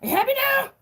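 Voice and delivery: high, loud half-joking blow-up; acting out losing it at people who keep poking; mock outburst. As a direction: snap back like you've been pushed too far. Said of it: "It's like".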